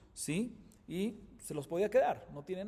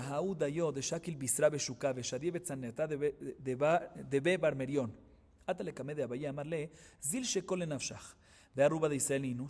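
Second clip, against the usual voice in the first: steady recited cadence for the Aramaic passage; Talmud text reading; 2 semitones lower than usual. Acted. Teacher reciting the Gemara passage to students, recited cadence. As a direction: read it out like a study-hall chant.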